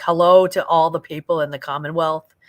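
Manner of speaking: put-on loud, half-successful Boston accent; hammed-up Boston greeting in an imperfect accent; attempted Boston accent. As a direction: have a clumsy go at a Boston accent. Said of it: "with a Boston accent? ... I can't do it right".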